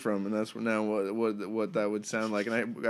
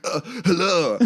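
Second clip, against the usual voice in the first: imitating movie villain; 5 semitones higher, 4 dB louder than usual. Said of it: "he's like".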